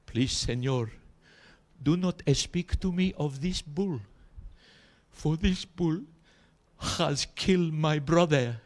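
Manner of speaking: a scared Spanish barman, slow and high; Spanish bartender. Acted. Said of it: "And he said".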